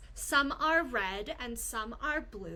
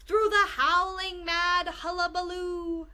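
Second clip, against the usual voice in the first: rising excitement; 5 semitones higher, 5 dB louder than usual. A narrator's reading. Building noise narrated.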